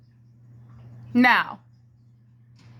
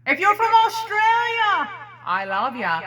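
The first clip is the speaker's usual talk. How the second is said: excited call-out; 6 semitones higher than usual. Acted. Shouted accent love.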